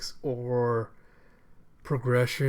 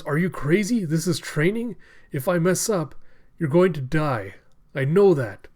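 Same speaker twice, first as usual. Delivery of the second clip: mock panicked yell; 4 semitones higher, 5 dB louder than usual. Hyogoro panicking at Luffy's training.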